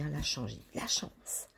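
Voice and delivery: « la chance » répété tout bas, en chuchotant; chuchoté. Real, not acted. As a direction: redire « la chance » dans un souffle pour se faire pardonner d'avoir crié. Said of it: "Pardon, j'ai crié". (chuchotement d'excuse après avoir crié)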